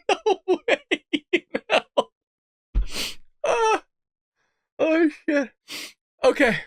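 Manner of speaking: high, laughed-out words; too tickled to talk properly; helpless laughter. Real, not acted. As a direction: squeeze the words out through laughter. Laughing too hard to read.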